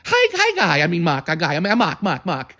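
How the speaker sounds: sprightly Harriet. Retold or imitated. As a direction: chirp hello like an excited old woman. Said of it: "She was always so sprite and energetic".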